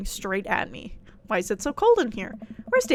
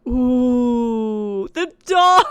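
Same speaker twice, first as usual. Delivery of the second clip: excited squeal; 8 dB louder, much slower than usual. Real, not acted. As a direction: squeal over the cute dog. Sees cute dog, squeals.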